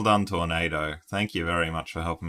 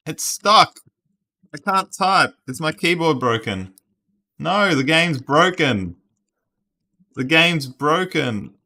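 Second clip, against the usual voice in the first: much higher and louder, panicked protest; frantic frustration; 9 semitones higher, 8 dB louder than usual. Real, not acted. Streamer yelling at the frozen game, frantic and high. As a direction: yelp at the broken game, high and loud.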